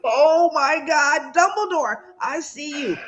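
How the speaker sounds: slow, awestruck and close to tears; awed. Retold or imitated. Spotting Dumbledore on YouTube, slow and awestruck. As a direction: greet him like a childhood hero come alive. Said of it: "I was like".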